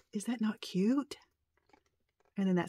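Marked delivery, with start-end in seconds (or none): 0.1-1.2 slow, hushed whisper. Real, not acted. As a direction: whisper it, charmed by the doll. Admiring voodoo doll.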